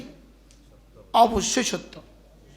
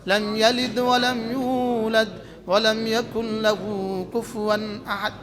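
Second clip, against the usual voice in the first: quicker, even-paced chanted recitation; brisk timed recitation. Shown as a demonstration. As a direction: recite it through within ten seconds. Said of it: "সর্বোচ্চ দশ second.".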